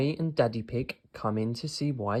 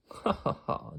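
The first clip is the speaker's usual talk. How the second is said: chuckle; 9 semitones higher than usual. A narrator's reading. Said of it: "chuckles Daddy Pig".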